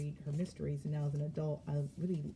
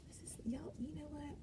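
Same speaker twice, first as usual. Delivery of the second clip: giggling; 11 semitones higher, 11 dB quieter than usual. Real, not acted. Giggly aside to viewers.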